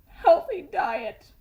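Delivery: slow, nervous push of the words; gulped, slow. A narrator's reading. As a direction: force it out after a gulp. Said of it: "Stuart gulped".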